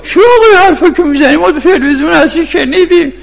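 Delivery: very high, strained heckling; high-pitched protest shouted from the audience; retold angry shout. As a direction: imitate a man yelling down the preacher. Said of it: "داد زد، گفت".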